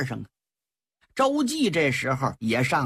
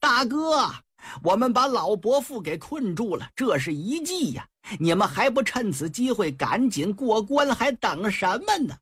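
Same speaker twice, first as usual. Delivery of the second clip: raised, higher call across the battle; shouting to his brother; 4 semitones higher than usual. Acted. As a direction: call out over the fighting to your big brother. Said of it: "黄明啊喊上了".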